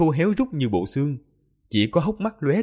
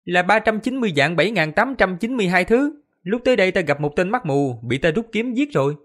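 cold; 7 semitones higher than usual. Acted. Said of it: "Lý Hàm lạnh nhạt nói".

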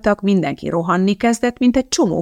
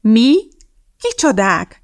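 startled, louder first word; alarmed; 4 semitones higher, 6 dB louder, slower than usual. A narrator's reading. Judy answers the shouting teacher, alarmed. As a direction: blurt it out in mild fright. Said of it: "kérdezte riadtan Judy".

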